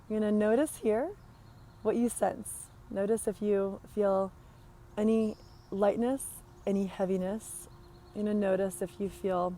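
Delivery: unhurried body-scan guidance with long pauses; guided meditation. Acted. Coach guiding listeners through breath and body scan, guided meditation. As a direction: lead them gently inward, leaving space between phrases.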